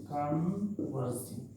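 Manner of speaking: कन्वर्जिंग stretched out slowly, falling at the end; slow drill. Shown as a demonstration. Teacher drilling the term for students, slowly. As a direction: draw out कन्वर्जिंग so students can repeat it.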